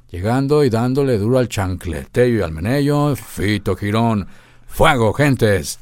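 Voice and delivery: loud, slow show host; radio announcer. Shown as a demonstration. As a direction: hype up the dance crowd. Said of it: "la voz de el programa".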